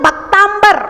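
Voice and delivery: "भक्तांबर" with an mb in place of m; common mispronunciation. Retold or imitated. Teacher quoting how everyone says it, mispronunciation demo. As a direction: slip a b into "भक्तांबर". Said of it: "जितने लोग बोलते हैं ना".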